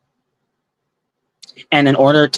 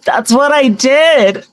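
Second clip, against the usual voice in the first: high, slow witch voice, falling end; witchy voice; 10 semitones higher, 3 dB louder, slower than usual. Shown as a demonstration. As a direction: say it like a cackling witch. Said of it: "it sounds like a wicked witch laughing".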